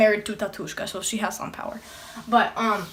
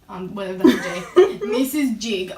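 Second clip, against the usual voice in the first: giggling through the words; trying not to laugh; giggly; 3 semitones lower than usual. Acted. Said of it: "Stop laughing".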